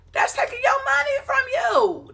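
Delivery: high, shouted mock YouTube voice. YouTube voiced snatching the creator's money, shouted high. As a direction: cry it out as the greedy platform.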